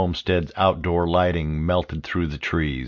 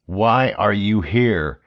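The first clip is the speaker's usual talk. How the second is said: slow, pressing question with mild anger; concern turning to anger; 2 semitones higher, slower than usual. Acted. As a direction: demand it, holding the anger in. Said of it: "Russo's voice shifted from concern to anger".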